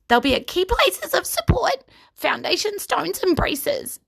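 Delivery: high whispered gnome voice. Acted. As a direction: whisper it, thinking fast. Rusty explains while pacing.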